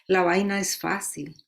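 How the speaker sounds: rhythmic Spanish ode, each line set apart; poem recitation. Acted. Poet offering her ode to Caribbean listeners, rhythmic recitation. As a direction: recite it as a list, falling at line ends.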